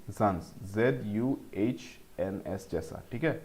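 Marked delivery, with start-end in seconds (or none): 0.1-0.5 ज़ांस said with a buzzing z, like "zuns"; teacher sounds out ज़ांस on its own; last syllable demo. Shown as a demonstration. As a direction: isolate the ending ज़ांस as zuns. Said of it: "ऐसे pronounce करेंगे".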